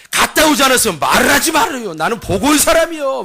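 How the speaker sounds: mock-indignant eyewitness; lightly acted insistence on having been there; indignant retort. Cousin silences the doubter as eyewitness, mildly indignant.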